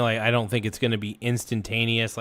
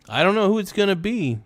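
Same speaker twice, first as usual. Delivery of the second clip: excited; 9 semitones higher, 3 dB louder than usual. Acted. Teasing next subscriber.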